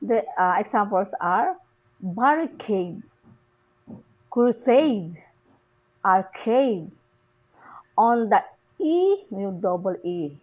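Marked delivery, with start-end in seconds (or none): 2.0-6.9 "barricade, crusade, arcade" with stress on each final syllable; stress on last syllable. Shown as a demonstration. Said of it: "are stressed on the last syllable".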